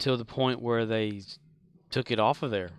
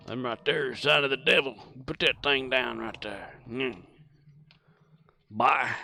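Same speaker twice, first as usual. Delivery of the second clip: hick voice. Retold or imitated. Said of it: "little hicks and stuff that don't like technology".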